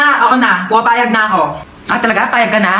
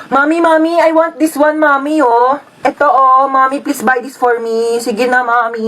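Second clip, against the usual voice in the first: put-on begging child. Child begs mother for toy.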